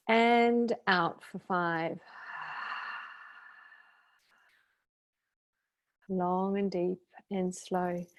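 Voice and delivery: slow, softly guided breath count; breathing demonstration. Shown as a demonstration. Meditation leader showing listeners the five-count breath, slow and calm. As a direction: stretch the out-breath cue, leaving long pauses. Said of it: "it looks like this".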